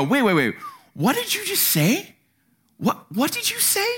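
stunned, asking again; surprised. Retold or imitated. Stopping a friend mid-conversation, rising disbelief. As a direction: pitch shooting up in disbelief.

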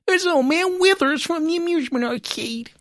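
high, sing-song bad Welsh accent. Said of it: "that's the best Welsh accent you're getting".

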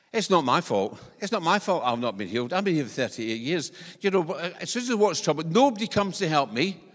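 self-pitying complaint building to loud and high; 1 complaining attitude. Retold or imitated. The lame man answering Jesus with a grievance, building to loud. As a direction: whine about being left out, rising to a loud peak. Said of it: "attitude problem".

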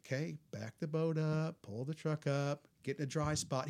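calm instructions. Retold or imitated. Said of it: "talked us through it in a real calm voice".

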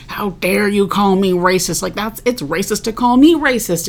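half-strength indignant outburst; retold screaming. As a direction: imitate an offended man protesting, without really yelling. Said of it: "he was, like, screaming".

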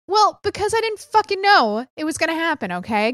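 high-pitched, exasperated self-defence; mock defensive retort. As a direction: snap back at an imagined complaint, pitch up. Defensive retort to imagined listener.

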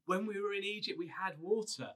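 hammed-up grumbling people; grumbling Israelites. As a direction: whine it like an ungrateful crowd. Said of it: "they grumble at him".

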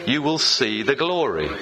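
deliberate recited declaration; leading a congregational recitation. Shown as a demonstration. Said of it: "Say it with me".

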